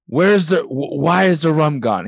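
imitating an outraged pirate; Jack Sparrow voice. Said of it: "he's like".

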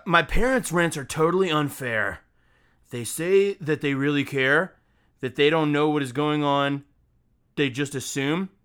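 measured mock-dramatic recital; dramatic reading. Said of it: "as dramatically as I possibly can".

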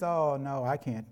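excuse-making dad. Pretend. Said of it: "you says".

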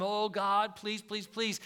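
mock pleading. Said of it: "plead before him".

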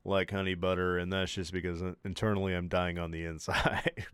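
stuffy, sick and congested. Real, not acted. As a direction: talk through a blocked nose. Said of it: "I'm so congested".

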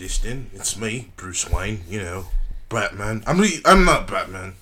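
playful British slip and hasty denial; British Bruce Wayne. Pretend. Friend playing Bruce Wayne letting his identity slip, British accent. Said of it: "Batman has never used an accent, a British accent".

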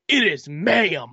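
slow, very deep correcting voice; extremely deep bass voice. Retold or imitated. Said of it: "in the deepest voice you can think of".

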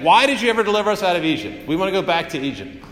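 lightly voiced complaining crowd, quick and high; mock whiny complaint. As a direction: rattle it off like a spoiled grumble. Israelites complaining after rescue.

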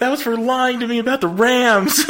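high, laughing taunt; laughing mock payback. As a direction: joke revenge line.

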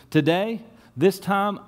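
proud declaration from the farmer; a farmer's excited boast; eager announcement. Retold or imitated. Farmer announcing his plan.

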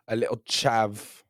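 slow South London accent attempt. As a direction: play it as a South London local. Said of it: "like, South London accent".

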